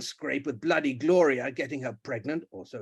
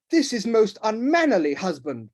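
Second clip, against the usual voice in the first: loud, higher protest; 7 semitones higher, 6 dB louder than usual. Acted. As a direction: rebuke your husband. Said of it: "protested the Duchess".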